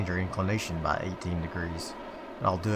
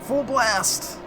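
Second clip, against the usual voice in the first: excited shout; 14 semitones higher, 6 dB louder than usual. Retold or imitated. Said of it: "I was just like".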